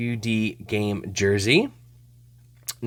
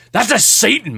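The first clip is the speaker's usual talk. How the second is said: retold earnest insistence, raised pitch; mock-serious, higher voice; imitating a serious friend; 8 semitones higher, 4 dB louder than usual. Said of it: "it's all serious".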